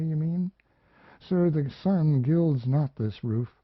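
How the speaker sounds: put-on a lonely young woman remembering, a little lifted; young woman's voice. Mariana speaks to the narrator.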